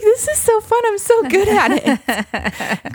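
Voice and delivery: over-the-top delighted self-praise; giddy brag. Retold or imitated. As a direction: gush like a thrilled kid. Bragging about caught fish.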